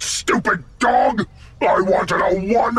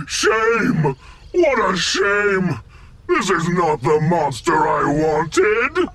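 angry shout; 5 semitones lower than usual. Acted. General fumes at failure.

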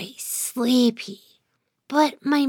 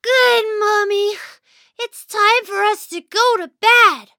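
sleepy; 8 semitones higher than usual. Acted. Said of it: "I yawned".

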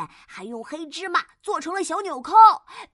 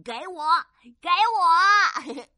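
eager cry that jumps louder on the repeat; eager clamouring; 3 semitones higher, 6 dB louder, much slower than usual. Acted. Vegetable heroes vying for a makeover, eager clamouring. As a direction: pipe up, then call out to be picked.

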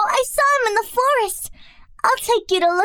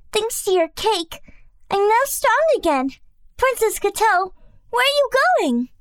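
higher, sweet little bird voice full of thanks; grateful; 7 semitones higher than usual. Acted. Birdie thanking Princess Gato, grateful high bird voice. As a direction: thank her like a small bird. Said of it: "Birdie said gratefully".

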